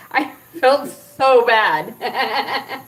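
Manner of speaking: slow, drawn out through laughter; real laughing regret. Real, not acted. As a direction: confess it while breaking into a laugh. Laughing at her own mishap.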